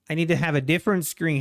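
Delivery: fast emphatic restatement. Real, not acted. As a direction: repeat it with urgency.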